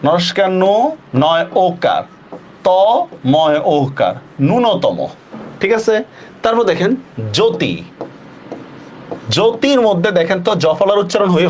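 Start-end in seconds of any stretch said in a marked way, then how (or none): 4.4-5.1 ন্যূনতম low, with a single n, "nu-no-tomo"; correct pronunciation. Shown as a demonstration. Teacher summing up the spelled-out word, single-n pronunciation. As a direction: end ন্যূনতম on a low fall, n not doubled. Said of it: "এটা ন্যূনতম".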